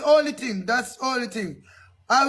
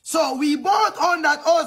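raised, higher insisting; insistent shout; 5 semitones higher than usual. Acted. Interviewee insisting to the officer, raised and fed up. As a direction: push it up, fed up. Insisting after repeated question.

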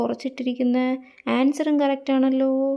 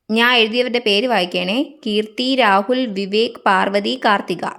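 loud announcement; 5 dB louder than usual. Acted. Announcing names to class.

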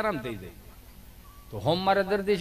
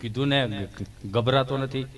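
stammering friend; 7 semitones lower, slower than usual. Retold or imitated. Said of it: "ગભો".

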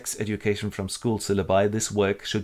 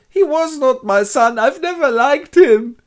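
squeaky high, slow, strange voice for the father; hammed-up high whine, dragging each word; weeping father; 10 dB louder than usual. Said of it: "and goes".

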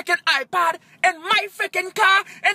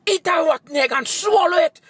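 angry yell. Real, not acted. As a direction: spit it out at the haters. Yelling insults at haters.

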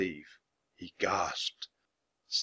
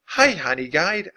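bright-pitched call, higher and louder; 6 semitones higher, 5 dB louder than usual. A narrator's reading. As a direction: call out to a bird. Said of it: "Annie called to the bird".

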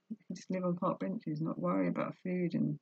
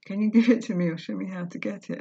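louder, fast, pushing through tears; tearful plea; 7 dB louder, faster than usual. Real, not acted. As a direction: force the quote out while choking up. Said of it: "don't wanna cry on camera".

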